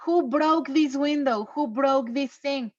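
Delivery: teacher imitating an angry mother asking who broke it. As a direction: play the furious mom demanding answers. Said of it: "your mother is super angry and she's like".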